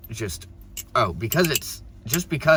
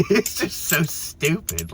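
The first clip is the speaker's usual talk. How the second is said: slow words through laughter; laughing; 6 semitones higher, much slower than usual. Real, not acted. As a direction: laugh it out in disbelief. Laughing at the situation.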